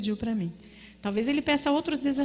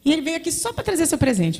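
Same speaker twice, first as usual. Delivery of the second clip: secretary voice; 5 semitones higher than usual. Retold or imitated. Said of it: "Margarida falou assim".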